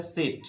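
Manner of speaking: सीट clipped to a brief "sit"; quick short sit. Shown as a demonstration. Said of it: "जल्दी से आपको बोलना होता है". (सीट को जल्दी से सिट)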